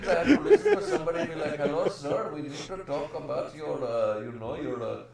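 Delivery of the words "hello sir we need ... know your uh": mock Indian call-centre scammer; hammed-up Indian scam caller accent. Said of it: "Your Indian accent is fucking shit".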